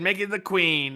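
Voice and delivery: high put-on voice; high, mocking voice; caricature voice. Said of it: "we do the voices".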